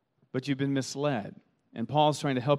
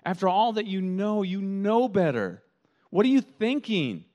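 higher, exasperated disbelief; incredulous; 4 semitones higher than usual. Retold or imitated. Pastor voicing Paul scolding loved friends, exasperated. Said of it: "I would say it like this".

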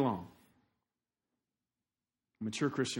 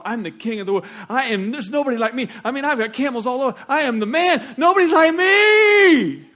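Nebuchadnezzar boasting; 5 semitones higher, 9 dB louder than usual. Retold or imitated. Proud king admiring his Babylon, building into boastful shouting. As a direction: swell with pride until you yell it. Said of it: "looking at it and going".

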